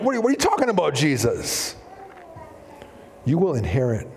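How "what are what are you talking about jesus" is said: high acted bewilderment, dropping at the end; baffled protest. Listeners questioning Jesus, acted baffled protest. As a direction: question it in high-pitched disbelief. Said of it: "And like".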